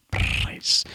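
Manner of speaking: "Price" with a purring rolled R; rolled Scottish R. Shown as a demonstration. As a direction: roll the R of "Price" Scottish style. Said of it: "We seem to accentuate our R's".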